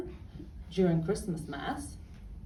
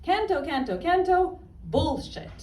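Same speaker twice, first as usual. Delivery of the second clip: mock Cantonese; 10 semitones higher, 5 dB louder than usual. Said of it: "explaining himself in Cantonese".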